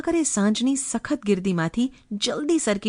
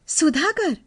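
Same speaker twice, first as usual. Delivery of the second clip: higher, lilting call that falls away; sweet playful call; 7 semitones higher, slower than usual. A narrator's reading. Wife's imagined answer to her husband, sweet lilting call. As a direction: sing out the name sweetly and playfully. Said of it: "મીઠા લહેકાભરી રમતિયાળ બૂમ".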